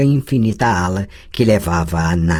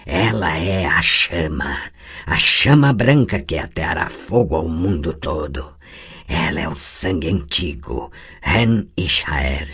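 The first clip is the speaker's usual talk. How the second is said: foretell doom from something inhuman; the possessing voice revealing who the girl is; cold prophetic voice; 2 semitones lower than usual. Acted.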